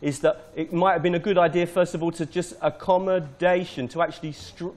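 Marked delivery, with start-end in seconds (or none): 2.6-3.9 "accommodation" with DA stressed; marking the stress. Shown as a demonstration. Teacher showing where stress goes, stressing fourth syllable. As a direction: hit DA in "accommodation". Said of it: "mark where the stress is".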